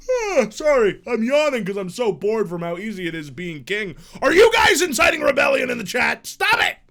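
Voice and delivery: high, loud scolding of chat; exasperated yelling. Real, not acted. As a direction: shout at the chat to cut it out. Yells at chat mid-stream.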